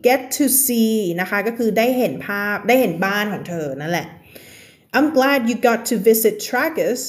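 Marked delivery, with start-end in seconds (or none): 5.0-7.0 slow reading. Shown as a demonstration.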